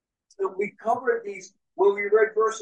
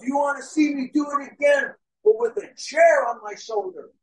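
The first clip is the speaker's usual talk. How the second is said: acted showman's call, raised pitch; calling to a crowd; 4 semitones higher than usual. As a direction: play the daredevil working the crowd. Daredevil calls out to crowd.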